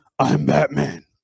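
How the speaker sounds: gravelly, loud, ground-out delivery. Doing his version of Batman saying his line, gravelly Batman voice. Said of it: "My Batman has a gravelly voice. He goes".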